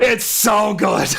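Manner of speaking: loud, drawn-out, high exclamation; stretched-out, high-pitched rave; gushing delight. Real, not acted. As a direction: gush slowly with real enthusiasm. Gushing over the trick.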